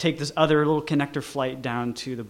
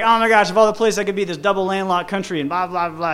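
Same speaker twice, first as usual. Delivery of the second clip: fast, chattering gush; a friend babbling away about the coincidence; jibber jabber; 3 semitones higher, faster than usual. Retold or imitated. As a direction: rattle it off excitedly. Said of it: "all jibber jabber".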